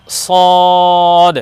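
সদ with a distinct s and long rounded o; heavy saad. Shown as a demonstration. Teacher names the new letter, long distinct সদ. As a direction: hold the vowel of সদ level, closing on d. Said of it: "এটা একটু পৃথক হবে".

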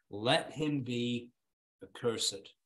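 hushed, slow verdict; grave slow close. Acted. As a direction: let the curse settle quietly. Solemn verse climax.

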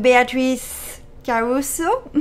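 name said with a French accent, Beatrice Caruso; light French pronunciation of Beatrice Caruso. Shown as a demonstration. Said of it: "with my wonderful French accent".

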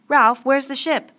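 high, loud, drawn-out call; urgent question. A narrator's reading. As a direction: call out for an answer, slowly and insistently. Urgent question at ship sighting.

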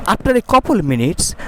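slow, drawn-out narration; story reading with intonation. Shown as a demonstration. Teacher continues the story for the class, intoned reading. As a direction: stretch the time phrase for learners. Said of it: "গল্পটা intonation সহকারে পড়ি".

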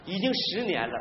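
ordinary talk, nothing marked

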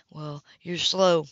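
slow, dry sarcastic jab. Acted. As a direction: needle her for being slow. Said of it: "The sarcasm rang clearly".

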